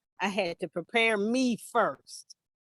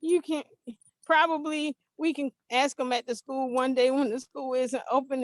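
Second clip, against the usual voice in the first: higher, hesitant voice feigning willingness; imitated nervous agreement; 4 semitones higher than usual. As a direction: stall uneasily while pretending it is fine. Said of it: "Your voice don't sound right".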